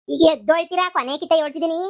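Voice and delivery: loud threatening yell; final warning shout. Acted. Grandma threatens sleepers with water, loud warning. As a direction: warn them one last time, loud.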